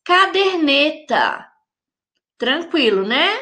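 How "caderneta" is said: "Caderneta" slowly spaced as ca-der-ne-ta; syllable by syllable. Shown as a demonstration. Teacher answering with four syllables, syllable by syllable. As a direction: sound out "Caderneta" in four deliberate beats. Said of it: "que tem quatro sílabas".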